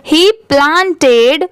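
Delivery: very slow, word-by-word reading aloud; careful model reading. Shown as a demonstration. Teacher reading the paragraph for learners, slow and deliberate. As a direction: read slowly with a gap after each word. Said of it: "वहाँ पर थोड़ा रुकना चाहिए".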